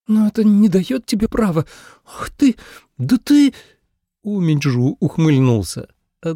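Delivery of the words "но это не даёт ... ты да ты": high, sputtering indignation; indignant girl. A narrator's reading. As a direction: choke on your anger. (высоко, с возмущением)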